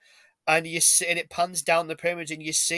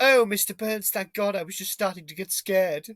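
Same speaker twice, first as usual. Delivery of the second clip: relieved heroine impression; 3 semitones higher than usual. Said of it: "my impression's too good of that".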